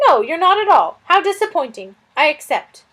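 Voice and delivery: high, loud, fretful lizard voice; a flustered little lizard fretting over a guest; fussy lizard. Acted. Lizard Suz fussing about the stranger, high and loud.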